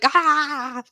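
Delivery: drawn-out mock yell; mock battle cry. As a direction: imitate a long open cry. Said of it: "he was like".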